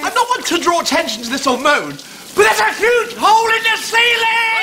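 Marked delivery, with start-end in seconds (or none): 2.4-4.6 loud, bursting complaint; exasperated outburst. Acted. Richard finally lets out his one allowed moan, loud outburst. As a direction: let the pent-up moan explode.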